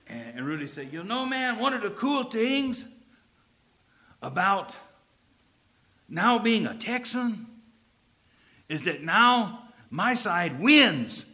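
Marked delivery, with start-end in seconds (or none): 0.9-7.5 lightly imitated Spanish accent; a friend's Mexican American Spanish accent. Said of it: "he had a heavy Spanish accent". 8.7-11.2 slow, lightly imitated Spanish accent. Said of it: "he had a heavy Spanish accent".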